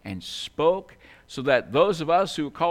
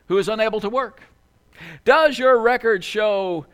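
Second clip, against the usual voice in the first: raised, insistent voice of an affronted rich man; indignant rebuttal; 5 semitones higher, 4 dB louder than usual. Acted. Rich man answering a telemarketer who wants a donation, indignant. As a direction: hammer out each question louder, mock-indignant.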